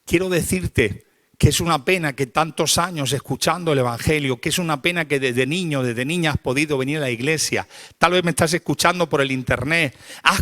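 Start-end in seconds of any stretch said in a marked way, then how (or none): none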